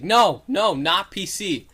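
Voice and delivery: loud, exasperated imitation of someone objecting; mock freak-out. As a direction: blurt it out, acting flustered. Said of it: "he's freaking out at him".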